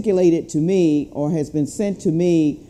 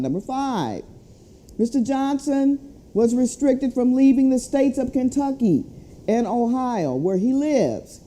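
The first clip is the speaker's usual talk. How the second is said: higher-pitched formal read of an official letter; formal statement read to supporters; reading a letter aloud; 4 semitones higher, faster than usual. Acted. Reads the prisoner's letter aloud.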